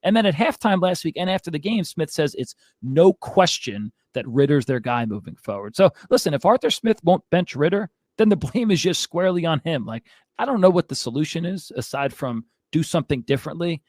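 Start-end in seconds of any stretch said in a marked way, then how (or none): 5.8-13.8 winded from ranting; breathless, gasping between phrases; out of breath. Real, not acted. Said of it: "I'm out of breath".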